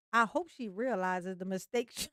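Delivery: breaking into real laughter mid-line; laughing through it. Real, not acted. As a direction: try to read it but crack up. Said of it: "I can't say that with a straight face".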